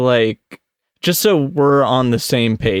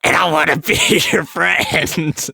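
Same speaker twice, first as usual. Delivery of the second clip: slow, sweet, higher cartoon girl voice; cute anime girl voice; 4 semitones higher, slower than usual. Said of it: "if you were gonna do a cute anime girl voice".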